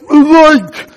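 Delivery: high, loud yelp of shock; startled cry. Retold or imitated. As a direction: yelp as if just punched. Narrator's startled cry when hit.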